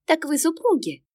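high, amused clerk voice; the cashier teasing with a smile; smiling cashier. Acted. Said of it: "улыбнулась кассирша". (кассирша с улыбкой, высоко)

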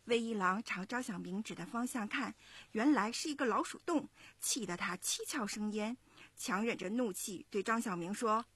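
put-on lively storytelling to young listeners; story narration. A narrator's reading. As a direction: narrate clearly and expressively, like a children's story. 妈妈朗读故事旁白. (讲故事的旁白)

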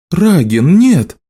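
sharp high cry of alarm; exclaiming. A narrator's reading. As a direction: cry out to stop him. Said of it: "воскликнула Элиса". (испуганный вскрик)

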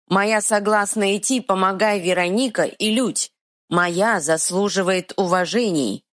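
stubborn dim-witted troll. Acted. Troll speaks.

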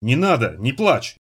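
plain reading voice

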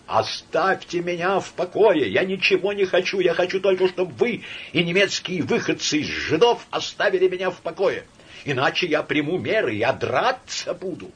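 high, loud, near-screaming rant; hysterical outburst. Acted. Laevsky in hysterics at his friend Samoylenko. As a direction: spill it all out in hysterics.

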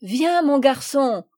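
loud, slow, hearty call. Acted. Commandant calling shy Paul over, hearty loud call. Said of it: "lui cria monsieur de Rosebourg".

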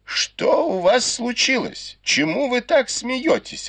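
lightly voiced grandmother, high and slow; a hint of an old lady calling; old matriarch's voice. Grandmother calling to the terrace, lightly voiced old lady. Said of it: "голос матушки Дзя".

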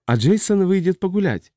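high-pitched, mock-tender question; sweet, coaxing voice. A narrator's reading. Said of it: "спросил он ласковым голосом". (ласковым высоким голосом)

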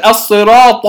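"الصراط" with the final ط voiced towards a heavy d. Shown as a demonstration. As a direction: mispronounce the end of "الصراط" like ض. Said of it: "كلاهما خطأ". (نطق "الصراط" خطأً بطاء تشبه الضاد)

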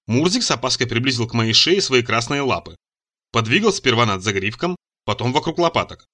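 usual speaking voice

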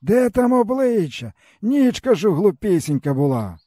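weary peasant man. A narrator's reading. Stepan tells the boy his woes, bitterly. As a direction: speak as a broken old peasant.

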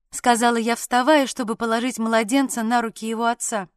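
ordinary delivery

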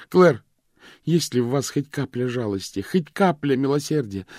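high, loud desperate begging. Acted. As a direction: plead for pity, voice straining. Vivien begs for mercy.

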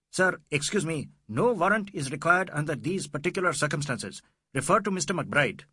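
high, officious protest; shrill police inspector. A narrator's reading. Inspector telling Fielding no warrant is required, shrill. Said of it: "said in shrill tones".

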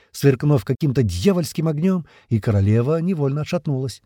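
ordinary delivery

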